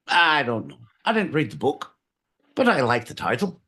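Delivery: light mock Irish brogue; a hint of Irish accent. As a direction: answer as a jokey Irishman. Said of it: "Irish, my boy Pete".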